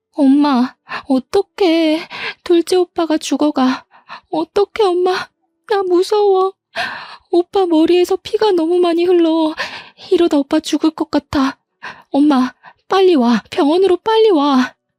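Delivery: high, tearful, trembling crying voice. Retelling a daughter's panicked phone call: imitating a crying, trembling voice. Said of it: "울며불며 떨리는 목소리로".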